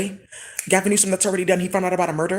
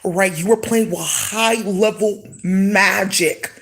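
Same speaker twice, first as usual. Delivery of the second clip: 1 accusing rant; 4 semitones higher, 3 dB louder, slower than usual. Real, not acted.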